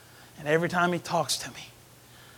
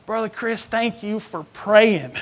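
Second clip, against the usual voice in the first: excited hunter; 3 semitones higher, 8 dB louder, slower than usual. Retold or imitated. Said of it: "He called me to tell me".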